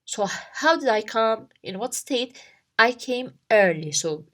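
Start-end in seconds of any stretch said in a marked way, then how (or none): 2.8-3.9 "early" as the emphasized answer; stress on early. Shown as a demonstration. Teacher answers own question on how they came, stressing "early". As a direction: land firmly on "early". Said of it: "I'm emphasizing".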